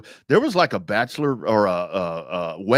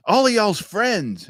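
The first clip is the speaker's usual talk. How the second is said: wife voice, slowed; 9 semitones higher, 3 dB louder, slower than usual. Retold or imitated. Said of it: "she's like".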